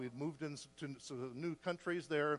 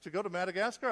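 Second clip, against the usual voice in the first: taken-aback question, rising at the end; retold shocked reaction; mild shock. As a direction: ask it in stunned disbelief, lightly re-enacted. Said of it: "kind of in shock".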